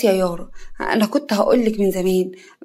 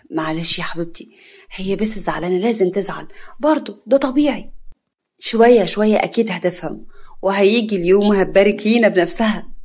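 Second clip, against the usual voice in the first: sly. Acted. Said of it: "كريم بخبث".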